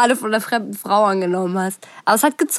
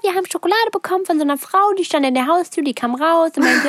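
put-on high, eager child voice, proudly reporting the chocolate; a small child bragging to mum, higher; proud little kid; 6 semitones higher than usual. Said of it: "so stolz erzählt". (stolze, hohe Kinderstimme)

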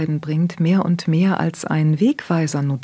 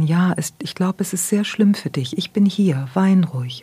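tender whispered comfort. Shown as a demonstration. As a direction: wrap the crying child in a gentle hush. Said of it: "zu dem Kind gehen kann und sagen kann".

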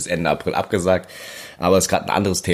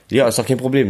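forced cheerful; 5 semitones higher than usual. Real, not acted. Forced cheer after lost recording.

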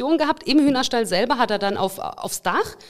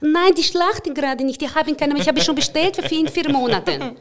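imitating mum's Russian accent; 5 semitones higher than usual. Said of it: "meine Mama mit russischem Akzent immer".

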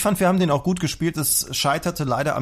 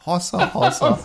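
high, lightly voiced hossa call; schlager hossa; 6 semitones higher, slower than usual. Singer ending the sketch with a bright hossa. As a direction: toss out a showman's hossa. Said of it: "Schlagersänger".

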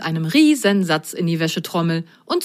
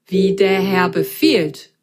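slow, cheery machine voice; a lightly voiced robot servant; magic washing machine answering the socks, slow and cheery; cheerful tinny voice; slower than usual. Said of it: "ertönte eine fröhliche, blecherne Stimme".

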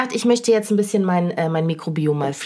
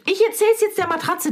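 mock sulk; 12 semitones higher than usual. Real, not acted. Mock sulk, high pitch.

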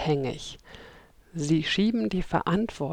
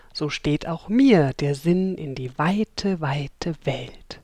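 poem reading. Shown as a demonstration. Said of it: "die erste Strophe wenigstens vorlesen".

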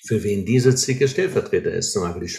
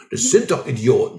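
indignant mock blame; 3 semitones higher, 3 dB louder than usual. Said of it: "also das kann man ja sagen, so unverschämt".

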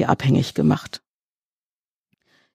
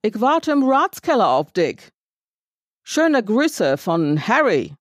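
called out after him; 6 semitones higher, slower than usual. A narrator's reading. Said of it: "rief er mir noch hinterher".

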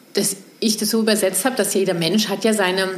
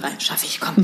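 whisper; 5 semitones lower, 6 dB quieter than usual. Real, not acted. Accepting three minutes.

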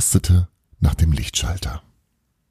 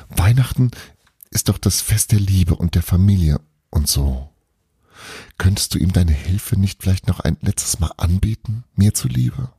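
lightly voiced boy, pleading; 2 semitones higher than usual. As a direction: gently plead for grandpa's sake. Bruno pleading for grandfather.

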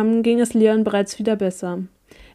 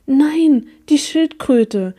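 higher, louder cry of outrage, slowing on the turtle; angry cry; 5 semitones higher, 5 dB louder, much slower than usual. A narrator's reading. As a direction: shout out in indignation for the turtle. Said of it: "schrie Amalia erbost".

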